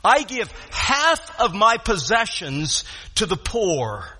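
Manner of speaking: slow, deliberate quoted declaration; resolved pledge. Retold or imitated. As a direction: set HALF apart with weight, then finish slowly. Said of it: "that's what he's saying".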